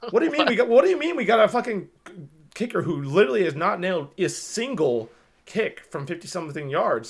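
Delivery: high, loud disbelief, easing toward the end; incredulous protest. Retold or imitated. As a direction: burst out in exasperated disbelief. Acting out his disbelief at the kicker.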